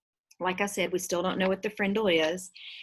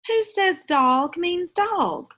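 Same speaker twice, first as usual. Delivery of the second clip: much higher, slow and louder teacher voice; stern teacher question; 11 semitones higher, 6 dB louder, much slower than usual. Acted. Missus Granger challenging her class, slow and pointed. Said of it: "She had said".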